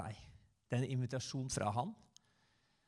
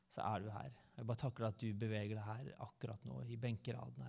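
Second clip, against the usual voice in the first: softer, intimate prayer with pauses; spoken prayer; 3 dB quieter than usual. Real, not acted. Preacher leads the Sunday congregation in closing prayer, softly prayerful. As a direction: pray quietly and sincerely on the congregation's behalf.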